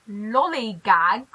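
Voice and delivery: "lollygag" said very slowly, syllable by syllable; sounding out new word. Real, not acted. Reading an American word she doesn't know, slowly. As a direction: try the strange word out slowly. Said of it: "I'm learning something new today".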